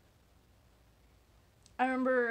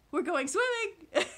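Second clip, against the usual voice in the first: loud, high and slow, bursting with excitement; enthusiastic; 9 semitones higher, 5 dB louder, slower than usual. Retold or imitated. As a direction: shout it out like a thrilled little kid. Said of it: "he says enthusiastically".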